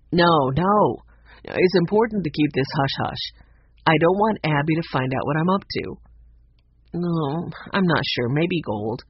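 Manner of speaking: a hint of a furtive man on the phone; slightly put-on secretive character voice; lightly voiced secretive man. Max overheard on the phone.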